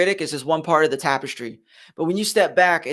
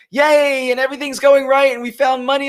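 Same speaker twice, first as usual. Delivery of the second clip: mock cheer; 6 semitones higher, 4 dB louder than usual. Mock cheer on a great day.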